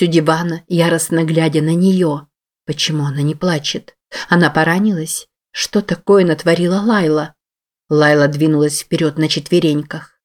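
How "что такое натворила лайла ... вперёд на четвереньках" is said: usual speaking voice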